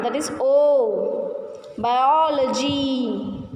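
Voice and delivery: "O" long and pushed, "Biology" stretched on its O; stress on O. Shown as a demonstration. Teacher demonstrates the vowel sound, "O" and "Biology" heavily drawn out. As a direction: draw out the O in "Biology" very slowly. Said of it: "Stress the vowel sound".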